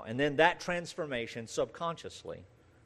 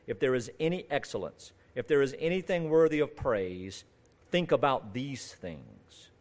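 measured, deliberate Bible reading with pauses; Scripture reading; 3 dB louder than usual. Acted. Preacher reads the passage to the church, solemn Scripture reading. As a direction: read it out phrase by phrase to a congregation.

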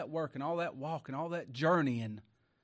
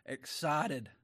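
laughing. Acted. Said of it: "Excited she ran".

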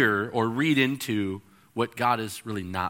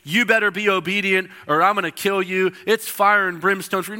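mock-angry threat, higher pitched; fire and brimstone threat; 5 semitones higher, 3 dB louder than usual. Preacher voicing what God is not saying, mock fire-and-brimstone. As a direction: threaten like a caricatured wrathful God. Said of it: "God's not saying".

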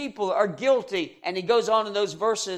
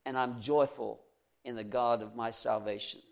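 quiet trusting prayer; 6 semitones lower, 7 dB quieter than usual. Retold or imitated. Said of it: "We should be able to say".

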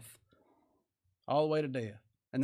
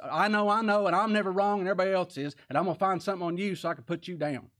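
mock self-righteous; 3 semitones higher, faster than usual. Preacher mimics self-righteous religious folks, mock boasting. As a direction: rattle it off as a mock boast, quickening at the end.

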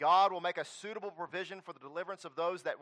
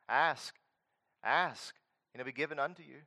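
usual speaking voice

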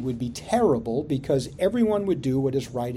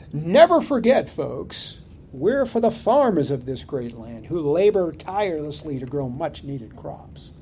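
mock royal propaganda; 4 dB louder than usual. Preacher mocking the king's court to his congregation, sarcastic. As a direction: sell the farmers a smug slogan, tongue in cheek. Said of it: "Something like".

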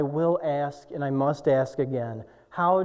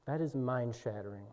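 hushed awe; 5 semitones lower, 12 dB quieter than usual. Real, not acted. Awed quiet reflection.

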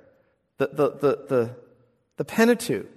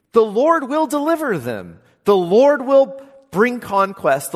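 building proclamation; 5 semitones higher, 6 dB louder than usual. Acted.

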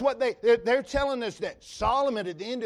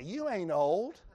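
mock congregation reply; slower than usual. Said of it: "That was a time to say".

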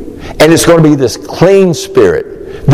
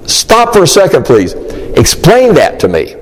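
acted baffled interruption; 4 semitones higher than usual. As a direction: interrupt like an overwhelmed listener. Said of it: "Nobody interrupts him. Nobody says".

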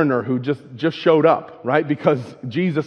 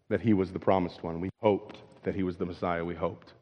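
sad; 7 semitones lower, 7 dB quieter than usual. Retold or imitated. Disciples grieving on the road.

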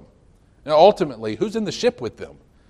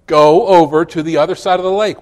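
emphatic preaching; 8 dB louder than usual. Acted. Preacher repeats Jesus' words.

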